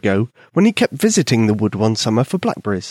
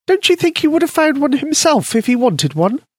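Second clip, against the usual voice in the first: high, tiny mouse voice; squeaky mouse voice; 13 semitones higher than usual. A narrator's reading. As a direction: voice a small eager mouse. Mouse Penny speaks.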